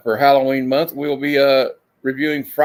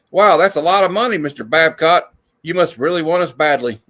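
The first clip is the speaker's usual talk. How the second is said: mock eager reply; 2 semitones higher, 3 dB louder than usual. Voicing reply to Babcock.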